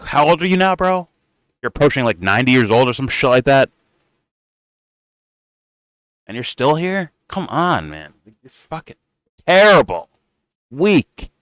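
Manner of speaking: high, jeering voice, sneering at him; mocking taunt. Host taunting an aging politician, high and jeering. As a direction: needle the old man about his age.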